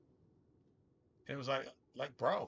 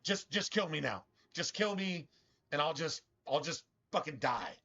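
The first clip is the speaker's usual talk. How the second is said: voicing the rat; 4 semitones higher than usual. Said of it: "He's like".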